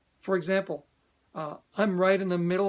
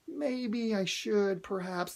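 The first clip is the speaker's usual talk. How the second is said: hesitant; slower than usual. Shown as a demonstration. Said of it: "one of those is".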